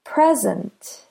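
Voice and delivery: "Present" with PRE stronger, SENT lighter; "Present" as a noun, PRE-zent; stress on first syllable. Shown as a demonstration. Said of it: "do you hear which syllable is stressed?".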